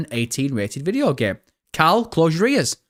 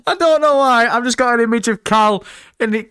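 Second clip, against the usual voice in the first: high, loud, struggling out of laughter; real laughing fit; 7 semitones higher, 5 dB louder than usual. Real, not acted. Streamer explaining to chat what set them off, helpless with laughter. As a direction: talk through the tail end of hysterics.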